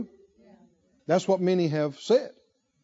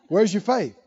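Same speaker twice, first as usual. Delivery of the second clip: laughing challenge; 2 semitones lower, 4 dB quieter than usual. Real, not acted.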